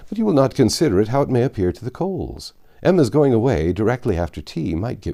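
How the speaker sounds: a lightly voiced, eager, hearty gentleman; brisk and helpful, offering at once; obliging gentleman. Mr Weston offering help to anxious Mr Woodhouse, lightly voiced and eager.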